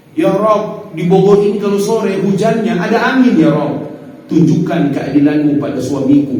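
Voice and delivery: a wife venting her grudge in prayer; hammed-up resentful prayer; mock angry wife's prayer. Wife praying angrily against husband.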